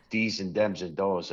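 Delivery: "dees" "dems" "does" with hard d for th; Chicago diction. Shown as a demonstration. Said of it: "my poor diction".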